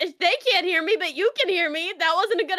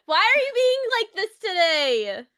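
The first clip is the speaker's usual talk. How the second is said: drawn-out protest; slower than usual. Real, not acted. Co-host protests being teased.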